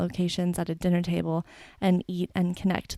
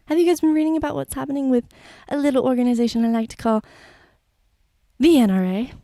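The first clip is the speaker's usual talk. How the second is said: sarcastic build-up; 4 semitones higher, 3 dB louder, faster than usual. Real, not acted. Sarcastic lead-in to the NRA.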